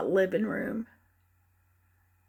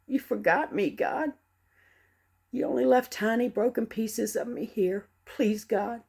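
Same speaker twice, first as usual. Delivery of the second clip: angry plea to God. Acted. Grieving mother railing at God, angry and raw. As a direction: demand answers, voice pushing and cracking.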